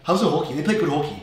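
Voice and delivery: Canadian round O on hockey; Canadian accent. Acted. Teacher mimicking Canadians for her colleague, Canadian accent. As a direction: lightly imitate a Canadian talking hockey. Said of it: "Yeah, they say that".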